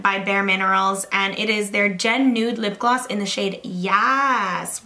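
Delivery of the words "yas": "Yas" with a long, stretched A; drawn-out vowel. Shown as a demonstration. Vlogger reading the shade name to viewers, "Yas" with its A stretched. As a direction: hold the A in "Yas". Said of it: "with three A's between the Y and the S".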